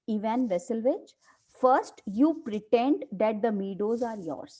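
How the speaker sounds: slow, deliberate reading of a play line; dramatic play reading. Acted. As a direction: read it out slowly like a script. Teacher reads play aloud.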